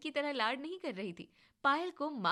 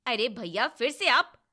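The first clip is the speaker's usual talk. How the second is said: loud, rising protest; loud sister protesting to brother; exasperated shout; 10 dB louder than usual. Acted. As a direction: call him out in disbelief.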